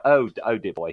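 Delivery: lightly voiced theatrical old actor; a hint of a plummy thespian saying dear boy; Julian Glover impression. Fan retells actor greeting him, a mild plummy imitation. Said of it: "he was so Julian Glover".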